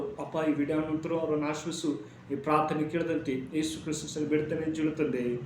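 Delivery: even, slightly hushed praying voice; closing prayer. Real, not acted. Preacher praying to God for the viewers, in prayer voice.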